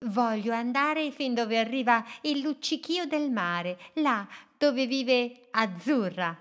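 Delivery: a small boat dreaming big, spoken up high; little boat's voice. Acted.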